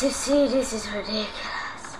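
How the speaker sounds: soft unvoiced aside; whisper. Real, not acted. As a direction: whisper it to the viewers. Whispered aside while hiding.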